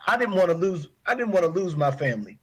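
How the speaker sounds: fighting tears, pitch pushed up; holding back tears. Real, not acted. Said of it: "I'm trying not to cry".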